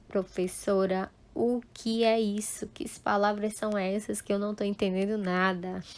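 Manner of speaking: hushed, softly spoken student's question; near-whispered, quickening mock bewilderment; confused student. Teacher voicing a lost student asking for help, hushed confusion.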